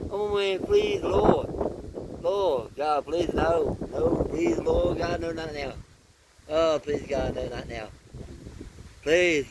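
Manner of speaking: desperate prayer. Real, not acted. Praying the tornado passes.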